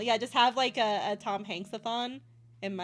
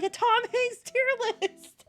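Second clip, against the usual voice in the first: higher put-on voice for the chat's answer; mocking chat voice; 10 semitones higher, 5 dB louder than usual. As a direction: imitate the chat teasing. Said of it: "And you guys are like".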